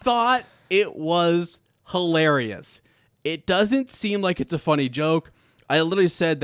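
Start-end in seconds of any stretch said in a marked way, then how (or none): 0.0-2.8 high, loud, incredulous protest at no laugh; indignant, pitched way up. Real, not acted. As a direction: squeal in disbelief, then draw out the defence. Reacts to joke falling flat.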